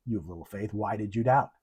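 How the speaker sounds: half-hearted mock reproach; scolding. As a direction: imitate a disappointed God chiding Peter, understated. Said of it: "Scolding us like that?".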